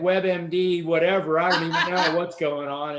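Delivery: laughing through a retold quote. Telling a friend about his wife's web research, laughing.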